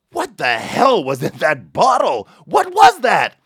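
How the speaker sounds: slow disbelief, then a high shouted question; baffled city man yelling at the miracle; astonished shout. Retold or imitated. Torontonian stunned at revived rabbit.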